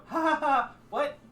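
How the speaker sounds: high, loud incredulous laugh; Josie. Acted. Josie meeting Sir Esper, high disbelieving laugh. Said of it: "you hear Josie go".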